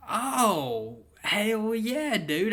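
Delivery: high, loud hyped agreement; excited. Retold or imitated. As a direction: hype it up, thrilled. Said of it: "I'm like".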